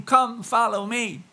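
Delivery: loud, high, slow proclaiming call; Jesus calling out. Acted. Pastor voicing Jesus calling the congregation, loud and high. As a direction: ring it out like a summons.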